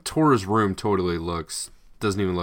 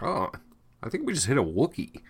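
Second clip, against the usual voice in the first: higher, quicker mock-alarmed soldier voice; startled trooper; 6 semitones higher, faster than usual. Retelling a police transmission in the film, higher mock-startled trooper voice. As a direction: play a trooper blurting out a surprise, a bit fast. Retold police radio guy quote.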